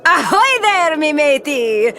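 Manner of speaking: hammed-up pirate greeting shouted at the moon base; pirate hail. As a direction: call out across the deck like a swaggering captain. Captain hails the moon base.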